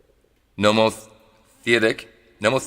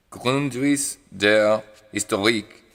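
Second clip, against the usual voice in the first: French accent; slower than usual. Shown as a demonstration. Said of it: "I'm saying that with a French accent".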